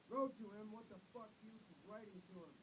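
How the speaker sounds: mock her words with contempt; angry shout. A narrator's reading. Father scorning mother's letters, angry shout. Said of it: "And Father shouted".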